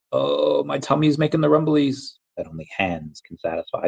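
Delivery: high-pitched cartoon quote voice; Llamas with Hats. Streamer quoting an old YouTube cartoon, playful high voice. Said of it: "Do y'all remember Llamas with Hats?".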